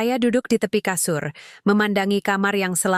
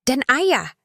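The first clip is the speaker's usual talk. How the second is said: tearful pleading; 7 semitones higher than usual. A narrator's reading. Daughter pleading, crying.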